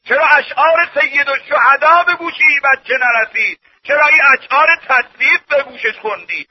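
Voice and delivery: emphatic string of rebuking questions; reproachful preaching. Acted. Preacher rebukes Muslim parents over songs, reproachful preaching. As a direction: press the congregation with each question.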